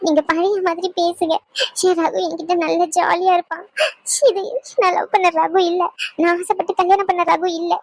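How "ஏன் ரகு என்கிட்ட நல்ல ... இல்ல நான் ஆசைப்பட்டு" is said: crying as she pleads; tearful. Acted. Wife cries and begs her husband, Ragu, to talk like before. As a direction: let the tears break in.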